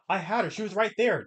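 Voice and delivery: high, insistent whine; high whiny protest. Retold or imitated. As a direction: plead it high. Acted quote of servant.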